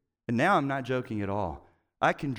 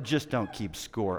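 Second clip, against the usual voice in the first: lower, softer, slow scornful repeat; 5 semitones lower, 3 dB quieter, slower than usual. Retold or imitated. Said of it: "Are you kidding me?".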